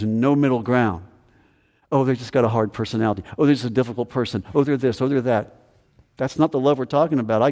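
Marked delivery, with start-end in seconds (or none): 1.9-5.6 fast, dismissive whiny excuses; mock excuses. Preacher mocking the congregation's excuses, fast and dismissive. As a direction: rattle off lame excuses.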